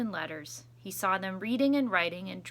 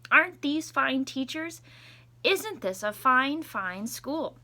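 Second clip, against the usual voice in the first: proud principal; 4 semitones higher, 4 dB louder, slower than usual. Acted. Principal voiced in read story.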